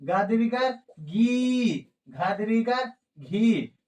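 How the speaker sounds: lengthened vowel demo; drawn-out long vowel. Shown as a demonstration. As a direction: say गी and घी slowly, holding the ई long. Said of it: "इसमें देर से उच्चारण आपका होता है".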